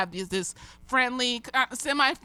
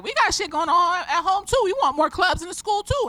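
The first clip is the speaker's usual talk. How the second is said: put-on higher, pleading kid voice; lightly voiced kids asking a teacher for more clubs; imitating students; 9 semitones higher, 4 dB louder than usual. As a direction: play the kids begging for clubs, pitched up.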